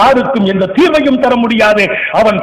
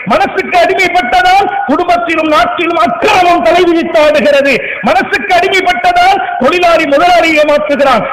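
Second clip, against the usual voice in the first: rising, shouted sermon lines; fiery preaching; 3 semitones higher than usual. Acted. Preacher rebuking the congregation, building to shouts. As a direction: hammer each charge home to the crowd.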